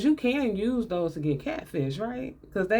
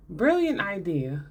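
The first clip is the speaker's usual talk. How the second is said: sarcastic; slower than usual. Real, not acted. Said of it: "Sarcasm is what I'm giving you".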